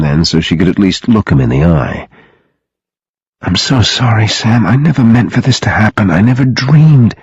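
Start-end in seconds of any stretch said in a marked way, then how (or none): 3.4-7.2 urgent, remorseful apology; distressed apology. Acted. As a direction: plead for forgiveness, pitch climbing at the end. Sophie apologises to Sam, distressed.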